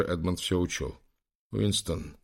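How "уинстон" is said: shaky hushed name; trembling whisper. A narrator's reading. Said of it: "прошептал Лэнгдон дрожащим голосом". (дрожащим шёпотом)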